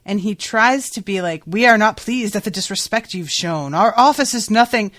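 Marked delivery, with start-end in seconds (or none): 1.4-4.9 raised, indignant imperial protest; a touch of agitated, stately offence. Acted. Emperor objects to being shown disrespect, agitated. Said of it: "he gets so agitated".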